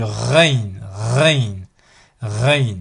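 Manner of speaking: Rain opening on a long throaty French-like R; R sound at onset. Shown as a demonstration. Teacher demonstrating Rain, long R at the start. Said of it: "un sort de R au début".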